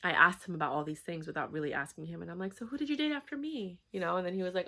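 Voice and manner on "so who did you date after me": lightly raised, innocent-sounding question; casual probe. Retold or imitated. To her new boyfriend, casually probing his dating past. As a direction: fish for the truth sweetly, pitched up.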